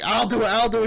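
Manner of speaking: acted-out eager offer; mock eager volunteering. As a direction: jump in eagerly, as a quote. Acts out the daughter volunteering.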